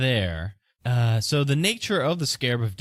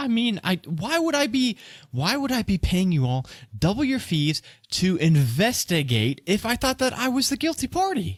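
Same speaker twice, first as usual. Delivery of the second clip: high, defensive pleading. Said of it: "You sound pretty defensive".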